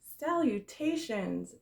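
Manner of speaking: drawn-out, stately Salutations; slow greeting. Acted. Spider greets the pig, slow and grand. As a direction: savor the big word.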